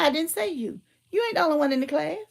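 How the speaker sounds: quick, lightly imitated dad cutting in; brusque dad. Dad cutting off his protesting daughter, mildly brusque and quick. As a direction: rattle it off like a dad who won't hear excuses. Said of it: "See, that's how he talk".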